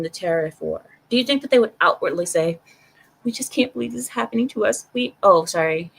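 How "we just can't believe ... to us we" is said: quick, slightly higher mock Chinese accent; attempted Chinese accent. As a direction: try a Chinese accent, rushing it. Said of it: "I can't do the Chinese accent".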